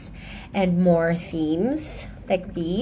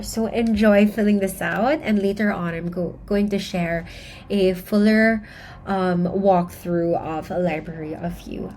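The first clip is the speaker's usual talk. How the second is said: breathless, catching her breath while sick. Real, not acted. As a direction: speak between short breaths, winded from a cough. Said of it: "I am catching my breath".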